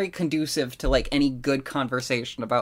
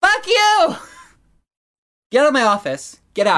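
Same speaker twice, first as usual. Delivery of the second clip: furious boss yelling, higher and louder; gravelly old tycoon; 12 semitones higher, 6 dB louder than usual. Pretend. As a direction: bellow like an enraged old tycoon. Mock boss firing guest.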